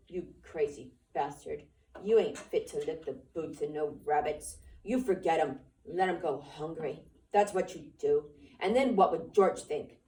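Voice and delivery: low, sneering rabbit in Lenny's head; mock him, low and jeering; taunting rabbit voice. The rabbit taunting Lenny in his head, low and sneering.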